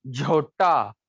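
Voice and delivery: झोटा with aspirated jh, said slowly; झोटा, breathy jh sound; Hindi jhota. Shown as a demonstration. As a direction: pronounce झोटा clearly with breathy jh. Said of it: "Hindi में बना झोटा".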